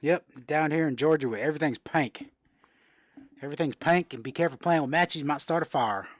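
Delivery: hammed-up Georgia accent, "pink" as "pank"; playful down-home Southern accent. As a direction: put on a light Georgia twang. Jokey Georgia talk about pink.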